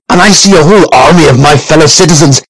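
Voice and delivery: rousing, pompous battle-speech voice; rally the crowd with mock grandeur; blustery pompous mayor.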